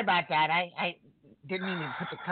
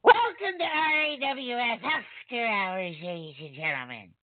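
Bubs voice; slower than usual. Retold or imitated. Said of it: "You got the voice down pat".

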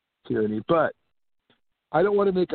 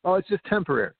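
higher, sing-song dismissive oh; mocking what authorities kept saying, higher sing-song; mocking parody; 5 semitones higher, faster than usual. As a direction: parody the officials' reassurance. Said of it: "I remember them saying".

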